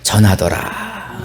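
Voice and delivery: slow, measured Bible reading; scripture reading. A narrator's reading. Pastor reads the verse to the congregation, slow formal reading. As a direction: read the verse out slowly and formally.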